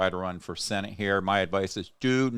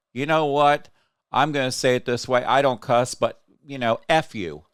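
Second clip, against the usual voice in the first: louder, higher angry outburst; real anger; 4 semitones higher, 4 dB louder than usual. Real, not acted. Host tells off people cheering the murder, furious. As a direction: builds to a furious F you. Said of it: "I am so pissed right now".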